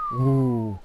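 high-pitched ooh; high impressed ooh. Real, not acted. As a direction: squeal of approval. Reaction to reboot line.

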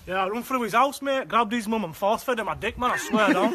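deep mock gangster brag; low chav boast; low tough-guy voice.

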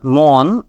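মন drawn out very slowly with o; the mistaken মন; wrong mon. Shown as a demonstration. Teacher shows the wrong vowel. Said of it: "একটাও আসলে right তো না".

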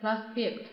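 Проспект stressed on its final syllable. Shown as a demonstration. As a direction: lean on the е in Проспект. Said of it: "重音在个这个哎上面".

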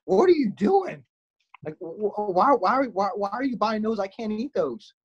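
blunt. Retold or imitated. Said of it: "in a much more undelicate way goes".

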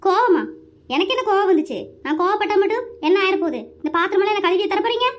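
indignant, denying the anger; huffy wifely retort; angry. Acted. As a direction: throw it back at husband, irritated. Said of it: "ஏண்டி கோவப்பட்டுட்டு இருக்கிற?".

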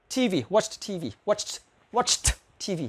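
"watched" ending in a puffed T with air; teacher stresses the final T with air; aspirated T. Shown as a demonstration. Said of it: "bật âm gió, âm T".

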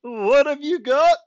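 high, loud, slow cheerleader shout; cheerleader yell. A narrator's reading. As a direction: whip up the crowd with it. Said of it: "Mister Dobson yells".

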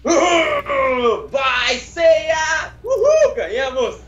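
high-pitched hero's whoop; triumphant cheer. Acted. Hero celebrates with Seiya after the riddle, triumphant cheer. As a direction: cheer wildly for a victory.

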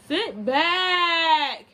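mom's sudden warning shout; sharp order. Real, not acted. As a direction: snap him back into his seat. Mother scolding child.

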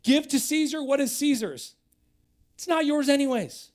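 loud and high, driving it home; aggressive preaching. Real, not acted. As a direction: preach it hard at full force. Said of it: "if this sounds aggressive".

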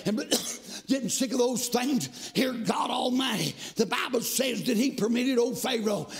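rhythmic chanted preaching, rising to shouts; fiery revival preaching. Acted. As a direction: whoop the sermon over the organ. Preaching at full force.

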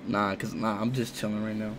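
low, soft deep voice. Real, not acted. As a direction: keep the voice dropped and low. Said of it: "Why is your voice so deep?".

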